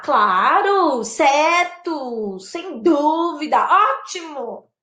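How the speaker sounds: emphatic, drawn-out agreement; wholehearted yes; agreeing. Shown as a demonstration. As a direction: agree word by word with conviction. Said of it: "Posso concordar".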